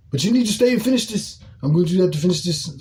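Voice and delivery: lightly mimicked Hispanic accent, fast and insistent. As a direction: imitate a pushy coworker's Hispanic accent, rushed. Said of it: "he had an accent".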